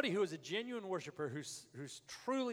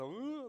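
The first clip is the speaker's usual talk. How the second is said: calf-like whine; 8 semitones higher than usual. Retold or imitated. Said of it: "like a bunch of calves".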